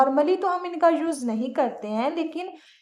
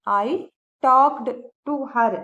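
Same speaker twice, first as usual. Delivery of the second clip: slow clear demo; 3 dB louder, much slower than usual. Shown as a demonstration. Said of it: "normally तो इस sentence को हम ऐसे बोलेंगे".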